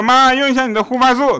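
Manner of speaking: high-pitched plea to mum; calling to mum. Acted. Child pestering mum in retold exchange.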